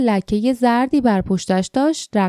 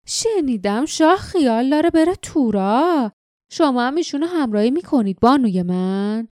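malicious; 3 semitones higher than usual. Acted. Jinks slyly needles Jasmine about the king's journey. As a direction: needle her, dripping false courtesy.

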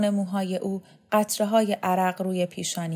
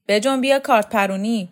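raised, loud order; brisk command; 3 semitones higher, 6 dB louder than usual. Acted. Shokat summons Vahab to knife-throwing, calling out. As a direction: call him over to take his turn.

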